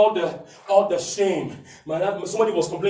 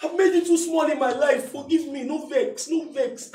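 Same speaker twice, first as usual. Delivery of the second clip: softer pleading prayer; 6 semitones higher, 3 dB quieter than usual. Acted. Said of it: "And he said".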